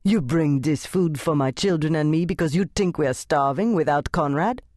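a touch of offended mother; proud, bristling challenge; mother bristling at the church ladies' charity; indignant. Acted. Mama confronts the visitors, hands on hips.

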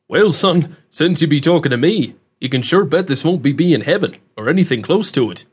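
folksy country dialect, lively and emphatic; rustic old man, amused. Acted. Man laughing off young stranger's question about heaven, amused rustic voice. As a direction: play an amused rustic host with a country twang.

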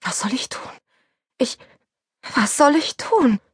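a hint of desperate whisper. A narrator's reading. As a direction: whisper it in shock. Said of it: "flüsterte ich".

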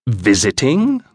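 snorting half-laugh; scornful English scoff; scoffing bark. A narrator's reading. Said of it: "barked something between a laugh and a snort".

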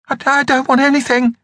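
high, fast frightened stammer; scared stammer. Acted. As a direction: squeak it out in fright. Scared boy facing skeleton.

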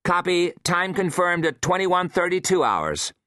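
lightly voiced woman on radio; formal reply over the speaker. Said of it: "Hensley's voice came over the speaker".

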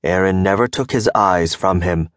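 plain reading voice

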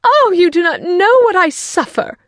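high, loud wail of self-pity; complaining wife. A narrator's reading. Wife bemoans her nerves to her husband, high complaint. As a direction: lament like a put-upon wife.

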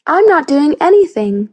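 high, loud defensive retort; snapping back. A narrator's reading. Accused boy denying he's doing anything, snapping back. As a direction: protest innocence sharply. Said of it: "Jamie snapped back".

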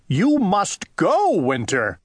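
shouting. Acted. Owl ordering Winter out, shouting. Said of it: "shouted Owl".

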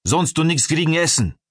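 high-pitched guard's threat in broken German; angry hissing. A narrator's reading. Guard threatens to withhold the prisoner's food, hissing angrily. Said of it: "fauchte der Kerl".

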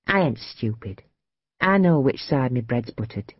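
plain reading voice

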